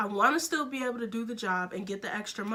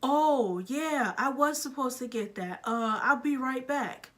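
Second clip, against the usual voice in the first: higher-pitched forgetful coworker, lightly imitated; casual oblivious coworker; 3 semitones higher than usual. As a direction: retell his belated "oh yeah" realization. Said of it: "And he's like".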